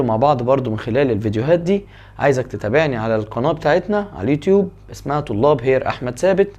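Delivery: quick, fast YouTube sign-off; fast closing announcement; rushed outro. Acted. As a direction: rattle through the channel plug.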